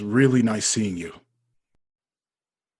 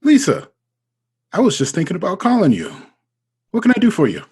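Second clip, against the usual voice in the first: flustered excitement; 8 semitones higher, 5 dB louder than usual. Acted. Flustered when his crush calls.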